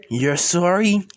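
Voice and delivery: incredulous question, lifting at the end; amused disbelief. Acted. Siblings who just laughed at the apology, incredulous. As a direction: throw the apology back in mock disbelief. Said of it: "Izuku and Izumi starts laughing".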